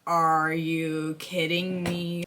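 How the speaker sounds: disbelieving. Retold or imitated. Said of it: "it's like".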